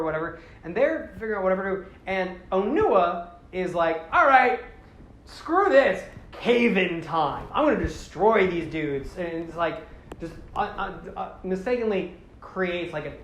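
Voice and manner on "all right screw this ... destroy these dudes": exasperated outburst. Retold or imitated. Hero's exasperated quote in retelling.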